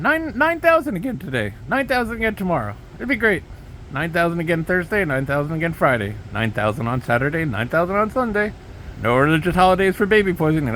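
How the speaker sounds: hammed-up cheerful villain boast; lightly voiced Trump gloating through a list of days; mock Trump. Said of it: "do a good accent".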